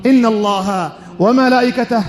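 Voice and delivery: slow, sonorous khutbah intoning; liturgical recitation. Real, not acted. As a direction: intone it slowly, stretching the long vowels like a chant. Formal Arabic opening and prayers of khutbah.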